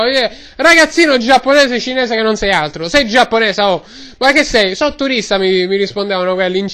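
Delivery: lightly voiced Roman street vendor; Roman-accented vendor rambling away; Roman ice-cream seller. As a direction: talk like a chatty Roman gelato man.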